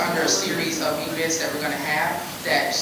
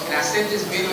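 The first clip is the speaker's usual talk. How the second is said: ordinary talk, nothing marked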